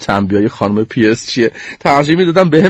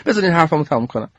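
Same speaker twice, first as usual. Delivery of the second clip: put-on high, fast kid voice cutting in; 4 semitones higher, faster than usual. Sneeze cuts off Hiccup, high and fast. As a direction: stop them and hurry on. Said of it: "پریدم وسط حرفش".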